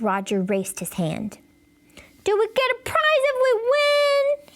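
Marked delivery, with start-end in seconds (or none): 2.2-4.5 put-on high, bright kid voice asking; a boy hoping for a prize, pitched up; eager little boy; Roger's voice. Roger's voice, child character.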